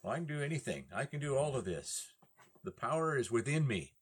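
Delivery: mock bragging voice; smug boast. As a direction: lightly imitate a proud humanist. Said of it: "A lot of people in our society".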